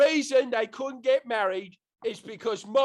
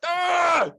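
short high loud frustrated shriek; a sudden hammed-up cry of despair; mock shriek; 11 semitones higher, 8 dB louder than usual. Shakespeare despairs at the drunk audience, high mock shriek.

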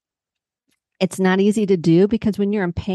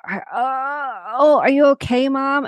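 put-on higher, worried young daughter asking; daughter's voice; 6 semitones higher, slower than usual. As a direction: lift it up like a concerned little girl. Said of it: "and she's like".

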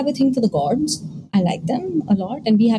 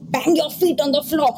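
higher-pitched, insistent imitated order; guardian angel command; 5 semitones higher than usual. Guardian angel orders her to stay conscious, insistent command. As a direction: voice an urgent instruction from a guiding spirit. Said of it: "and he said".

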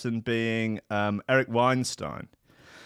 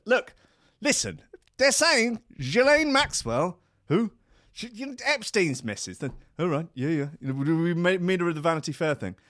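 urgent wife; 7 semitones higher than usual. Acted. Wife pressing Elon about the headline, high and urgent. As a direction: hurry him into listening.

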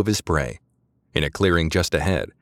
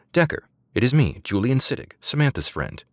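demure anxious call; 7 semitones higher than usual. A narrator's reading. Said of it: "a demure and anxious voice called softly".

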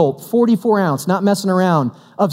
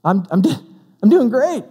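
bothered; 4 semitones higher than usual. Retold or imitated. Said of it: "I was a little bit bothered".

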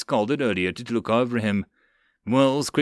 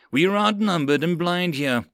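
raised, urgent protest; yelled warning; 5 semitones higher than usual. Acted. Sergeant warning lieutenant they are outnumbered, raised voice. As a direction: argue urgently over the gunfire. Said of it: "Mills yelled at Karath".

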